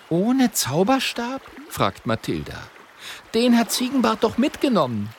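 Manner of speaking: high, doubtful question; a sceptical girl; Mathilda's voice. A narrator's reading. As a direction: point out the problem.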